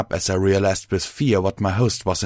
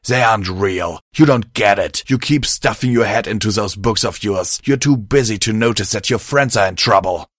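heated, somewhat louder outburst; mild angry shout; 4 dB louder than usual. Acted. Host telling his friend she ignores trouble, mildly shouting. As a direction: argue back with a touch of force. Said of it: "my host shouted".

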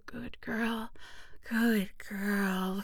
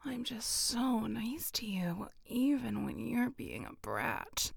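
intimate whisper; slower than usual. Acted. Whispering close to a partner, intimate and teasing. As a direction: breathe every word like a secret to a lover.

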